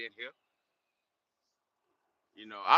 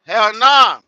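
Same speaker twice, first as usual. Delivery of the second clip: loud, higher burst of refusal; loud higher hell nah; emphatic denial; 8 semitones higher, 17 dB louder than usual. Real, not acted. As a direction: blurt it out hard. Answering a viewer's comment.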